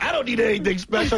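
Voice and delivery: light, jokey retelling; a touch of mock indignation; joking tone. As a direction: toss it off like a joke. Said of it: "So he's like".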